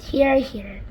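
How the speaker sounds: shouted. Acted. Creatures cheering the Ladybird, milder shout. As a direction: cheer agreement again. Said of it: "they all shouted".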